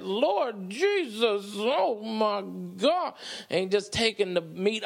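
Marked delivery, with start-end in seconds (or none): 0.0-3.1 slow, drawn-out churchy moaning; mock praising Jesus. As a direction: savour each word like a mock church praise. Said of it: "But he's like".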